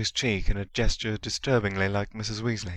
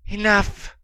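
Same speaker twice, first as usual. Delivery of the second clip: commanding; 12 semitones higher, 6 dB louder than usual. A narrator's reading. Dark Lord commanding.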